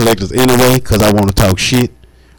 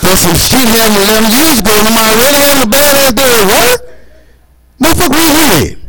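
mock anger; 10 semitones higher than usual. Retelling a fight with a collector, mock anger. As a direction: climb up into a comic rage.

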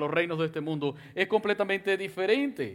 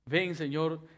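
earnest prayer spoken to God; modeled prayer; 2 semitones lower than usual. Shown as a demonstration. Preacher modeling a prayer for the congregation, earnest and humble. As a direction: pray it humbly, as your own words.

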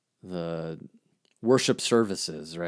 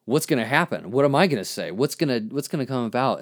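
an excited inner "ooh"; thrilled wondering what comes next; excited anticipation; 3 semitones higher, 5 dB louder, faster than usual. Retold or imitated. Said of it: "I get more excited because I start thinking".

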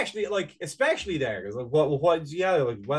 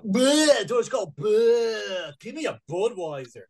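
disgusted; 6 semitones higher, 3 dB louder, slower than usual. Retold or imitated. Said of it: "when you're like".

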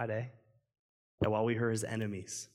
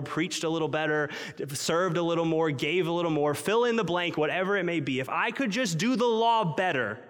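building faster and higher as the list grows; rising frantic bargaining; 4 semitones higher, 4 dB louder than usual. Retold or imitated. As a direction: pile each promise on more urgently. Listing self-improvement bargains, building.

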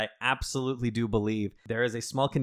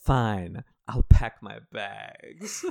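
resigned shrug; 6 dB louder, much slower than usual. Retold or imitated. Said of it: "Zola's like".

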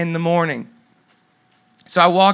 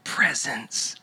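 inner voice of God; 3 semitones lower, 4 dB quieter, slower than usual. Retold or imitated. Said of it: "this voice comes to my imagination".

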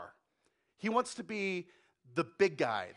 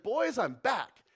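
playful Jesus; 6 semitones higher, 6 dB louder, much slower than usual. Acted. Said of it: "he's like".

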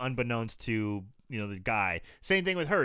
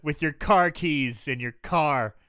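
lightly acted cop, drawn out and louder; mock horrible cop; 3 semitones higher, 5 dB louder, much slower than usual. Co-host mocks the cop leaving a suspect with his keys, mock-stern. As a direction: play an inept cop laying down orders slowly. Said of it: "Horrible cop".

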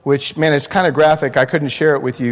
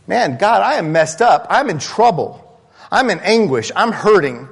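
raised pleading voice, a touch of anguish; psalmist's anguish; 4 semitones higher than usual. Acted. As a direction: cry out to God as one in trouble. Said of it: "the first thing he says is".

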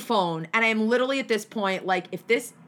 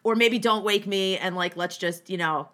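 defeated giving up; 4 semitones lower than usual. Retold or imitated. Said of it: "breaking point yesterday where I was like".

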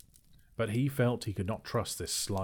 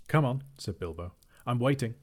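higher, louder bold challenge; bold and cheerful; 4 semitones higher, 5 dB louder than usual. A narrator's reading. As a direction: sound braver than you feel. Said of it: "tried to sound bold".

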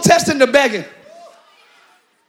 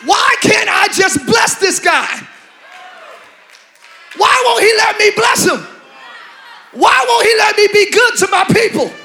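God in heaven; 3 semitones higher than usual. Acted. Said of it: "I'm just acting out what God did in heaven".

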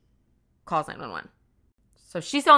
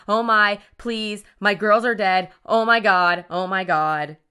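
louder, urgent pleading without real gasping; retold hyperventilating; 2 semitones higher, 7 dB louder, slower than usual. Retelling the shot mother's call, imitated panic. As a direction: imitate a panicked plea, emphatic but controlled. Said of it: "she's, like, hyperventilating".

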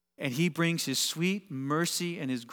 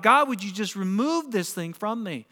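raised, louder imitated plea; acted plea, pitched higher; calling out to God; 4 semitones higher, 3 dB louder than usual. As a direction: cry out a prayer under strain. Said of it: "you call out to God".

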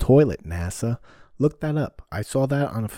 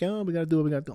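mock resigned friend; 7 semitones higher, much faster than usual. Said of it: "He's like".

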